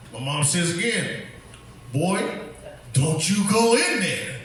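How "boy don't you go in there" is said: slow, drawn-out warning; motherly warning. Retold or imitated. Mom to her teenage son, stern slow warning. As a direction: spell out the warning, word by slow word.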